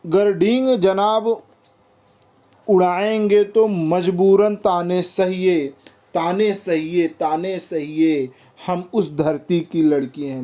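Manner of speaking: slow, measured verse reading with stretched words; poem recitation. Acted. Teacher reciting the girls' retort to boasting boys, poem recitation. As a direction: recite the verse in drawn-out phrases.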